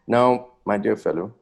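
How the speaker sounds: confiding whisper to a friend; a sly whispered aside before a favor. Acted. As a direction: lean in and breathe it, unvoiced.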